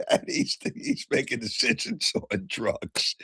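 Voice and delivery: high laughing disbelief; laughing while talking. Real, not acted. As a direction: laugh through the words. Mocking a health official, laughing.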